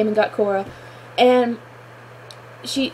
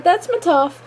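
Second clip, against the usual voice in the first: excited cheer; 6 semitones higher than usual. Retold or imitated. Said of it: "I was like".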